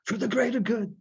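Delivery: high, plaintive sing-song rasp; imitating Saw. Podcaster attempts Saw's voice, high and sing-songy. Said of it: "I wish I could do his voice".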